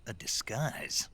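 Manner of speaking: slow, whispered echo of disbelief; puzzled whisper. Acted. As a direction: echo it back under your breath. Snake echoes in disbelief.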